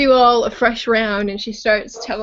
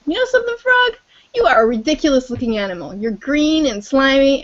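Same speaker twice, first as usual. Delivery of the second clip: lion voice. Acted. Lion mocking the frog, boastful lion voice. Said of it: "Lion comes to a frog and says".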